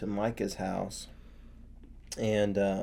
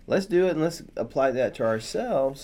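sudden realization; 7 semitones higher than usual. Acted. Danites realizing they can do whatever they want, high and gleeful. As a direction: play the Danites cheerfully spotting a loophole. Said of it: "it's kind of like they realize".

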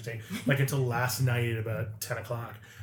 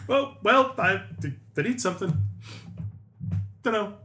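mock Irish dither; 8 semitones higher, 3 dB louder than usual. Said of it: "Irish voice".

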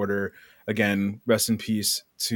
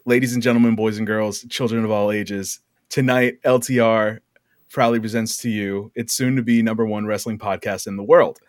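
booming ring announcer intro. Pretend. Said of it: "I start every episode with".

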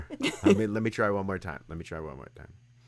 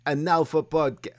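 mock Russian accent; 2 semitones higher than usual. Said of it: "let me try it again".

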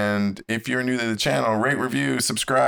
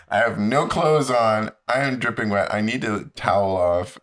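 louder exasperated protest; emphatic; 3 semitones higher, 6 dB louder than usual. Retold or imitated. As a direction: stress being naked, louder. Exasperated retelling.

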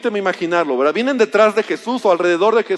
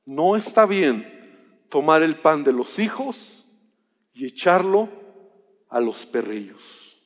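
stern refusal; 6 semitones lower, 3 dB quieter, slower than usual. Retold or imitated. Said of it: "la respuesta fue".

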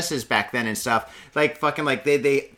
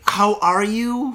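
business tone; 7 semitones higher, 4 dB louder, much slower than usual. Shown as a demonstration. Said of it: "Can you be more business when you say".

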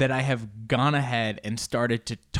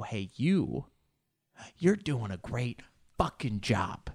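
sincere encouragement; slower than usual. Real, not acted. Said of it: "I want you to know".

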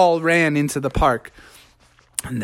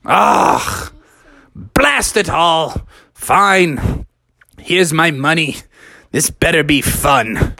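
grudging father; 3 semitones higher, slower than usual. Acted. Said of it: "And Father Frog said".

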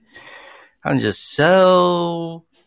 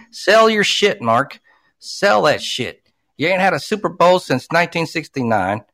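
heated, higher-pitched venting at the team owner; angry rant; 3 semitones higher than usual. Real, not acted. Fan rants at the Raiders owner, heated and fed up. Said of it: "I'm going on a rant".

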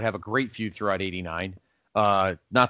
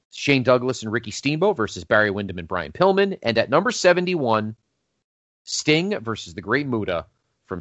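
newscaster voice. Acted. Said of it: "you get your little newscaster".

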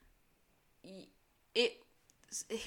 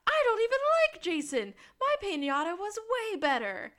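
mock petulant; 12 semitones higher, 9 dB louder than usual. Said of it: "He goes".

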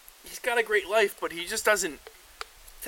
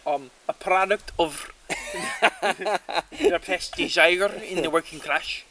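laughing mock lecture; 4 dB louder than usual.

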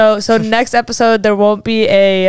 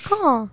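eagle caw impression; 5 semitones higher, 6 dB quieter than usual. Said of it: "That was my impression of an eagle".

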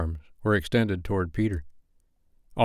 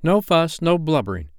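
cried out; 7 semitones higher, 3 dB louder than usual. A narrator's reading. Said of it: "cried Peter".

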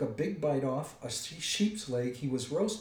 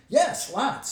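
high, loud, hasty answer; frightened blurt; 12 semitones higher, 9 dB louder than usual. A narrator's reading. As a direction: blurt it out before thinking.

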